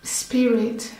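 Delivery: measured meditation voice with long pauses; guided meditation. Acted. Priestess leading listeners through a healing meditation, calm guided delivery. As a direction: guide them calmly, phrase by phrase, leaving room to breathe.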